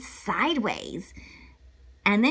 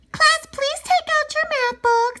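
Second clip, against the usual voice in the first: teacher voice; 4 dB louder than usual. Acted. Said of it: "said Missus Hart".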